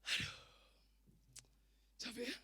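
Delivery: soft tired aside; weary inner voice. Acted. Preacher voicing a listener's heart, weary and soft. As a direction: sigh it quietly, as if to yourself. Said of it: "hati saudara berkata begini".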